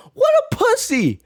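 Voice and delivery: very high mocking squeal; mocking jeer. Real, not acted. Reactor mocking the begging villain, high jeer. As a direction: sneer it out in scorn.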